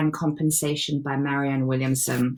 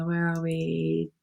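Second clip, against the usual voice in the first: ordinary delivery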